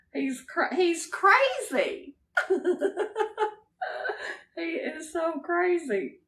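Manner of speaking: high, slowed words through giggles; laughing. Real, not acted. Laughing fondly about Junior to viewers. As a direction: break up laughing as you say it.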